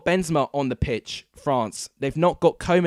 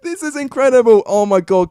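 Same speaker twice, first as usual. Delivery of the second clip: breathless disbelief; 7 semitones higher, 7 dB louder, faster than usual. Real, not acted. Still reeling from the upset.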